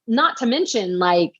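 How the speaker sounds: high, panicked rush of worry. Retold or imitated. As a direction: spill out the fear, voice up high. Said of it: "I was like".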